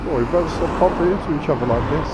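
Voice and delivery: quick, hammed-up retelling of the old joke; mock cheesy line. Retelling the joke he just told the lady, mock cheesy. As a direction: toss off the cliché in a jokey put-on voice. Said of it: "that age-old joke".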